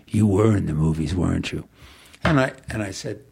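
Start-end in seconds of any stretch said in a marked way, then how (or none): 0.1-1.6 put-on low gruff old man; rough, low stranger's voice. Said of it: "in this real gruff voice".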